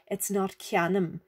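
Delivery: cianum said with a short, plain vowel; cianum, no long vowel from the fada; wrong short vowel. Shown as a demonstration. Teacher showing pupils the wrong Irish ending. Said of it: "it's cianeum".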